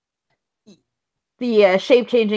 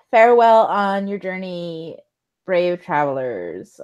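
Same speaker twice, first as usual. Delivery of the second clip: slow, drawn-out ceremonial farewell; stretched-out mock blessing; mock solemn farewell. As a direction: send them off with drawn-out solemnity.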